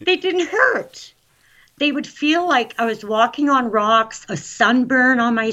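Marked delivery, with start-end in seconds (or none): 0.0-2.8 happy excitement. Real, not acted. Guest marvels at pain-free feet, excited and happy. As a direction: stretch it out high, thrilled. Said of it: "I'm getting so excited because I'm so happy".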